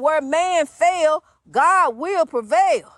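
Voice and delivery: slow, weighty preacher's declaration; slow proclamation. Real, not acted. Preacher telling listeners whom to trust, slow proclamation. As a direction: draw out "man fail" and "God will prevail". Key line, first delivery.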